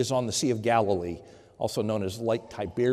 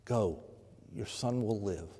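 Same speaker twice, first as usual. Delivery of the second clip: softer, gentle echo of the promise; soft repeat; 4 semitones lower, 9 dB quieter than usual. Acted. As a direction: say it again, much softer, like a tender assurance. Jesus speaks mercy, repeated.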